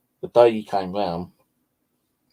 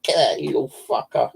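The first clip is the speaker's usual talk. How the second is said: higher, louder mock scold; telling off the cat; 6 semitones higher, 3 dB louder than usual. Owner orders cat out the door, scolding. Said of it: "I went".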